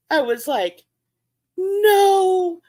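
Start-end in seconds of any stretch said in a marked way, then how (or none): 1.6-2.6 high, pained wail of no; mock-anguished no; distraught no. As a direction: cry out in dismay, pitched up. Despair at dead fish.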